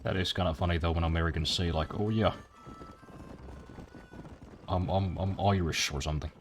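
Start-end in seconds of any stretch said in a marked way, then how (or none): 2.0-5.9 light mock Southern accent; casually put-on Southern US accent. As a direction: imitate an American with a hint of a Southern drawl. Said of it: "the thickest southern accent you, you've ever heard".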